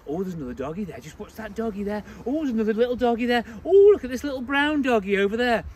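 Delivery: fussy owner cooing to the dog, a hint of it; lightly voiced gushing owner on a walk; mock baby talk. Owner on the street cooing at her dog, light mock baby talk. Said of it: "talking to the dog like it's a baby".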